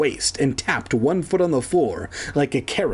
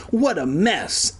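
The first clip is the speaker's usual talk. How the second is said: slow, higher exclamation; dismayed cry; 5 semitones higher than usual. A narrator's reading. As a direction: cry out, stretching the words. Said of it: "Evan cried".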